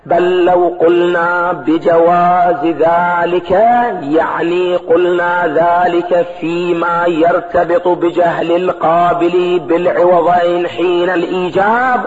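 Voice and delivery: slow, drawn-out lecture recitation; slow scholarly reading on a level note; measured text reading. Acted. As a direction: read it out slowly, stretching the long vowels. Reads and glosses the text.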